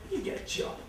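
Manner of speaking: mock haughty woman, high and slow; scolding woman. Same woman scolding a young lad, mock high and slow. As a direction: sneer down at the lad. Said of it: "turn around and say".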